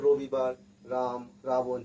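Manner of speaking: র in রবিবার, রাম, রাবণ with the tongue kept forward. Shown as a demonstration. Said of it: "জিভটা সামনের দিকেই থাকছে". (রবিবার, রাম, রাবণ-এর র জিভ সামনে রেখে)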